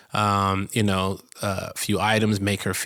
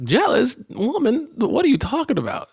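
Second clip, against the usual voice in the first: high-pitched, affronted disbelief; loud, squeaky-high indignant comeback; mock incredulity; 14 semitones higher, 4 dB louder than usual. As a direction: act utterly baffled by the accusation. Acting incredulous reply to jealousy question.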